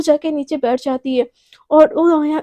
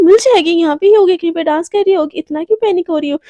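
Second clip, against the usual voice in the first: louder, brushing off the worry, quicker at the end; loud dismissive; 3 semitones higher, 6 dB louder than usual. Acted. Anaya brushing off Garima's panic over Priyanka, loud and dismissive. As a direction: shrug it off loudly.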